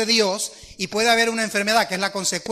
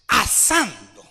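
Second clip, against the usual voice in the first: incredulous echo; much slower than usual. Retold or imitated. Mother repeats in disbelief.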